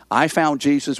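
"I" lifted in a quoted claim; stress on I. Retold or imitated. Preacher quoting self-focused believers, stressing "I". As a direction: lean on "I" in "I found Jesus". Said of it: "where's the emphasis?".

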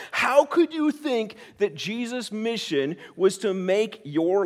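scolding Peter. Acted. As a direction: shake your head at his selfishness. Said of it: "look at Peter and say".

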